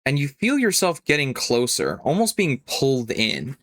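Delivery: suspenseful narration, repeated phrases spaced out; game master scene-setting. Acted. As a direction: draw the journey out beat by beat.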